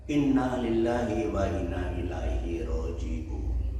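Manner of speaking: slow, level owner recitation of "Inna lillahi wa inna ilaihi roji'un"; calm recitation. Retold or imitated. Camel owner teaching the stopping phrase, slow calm voice. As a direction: intone it calmly.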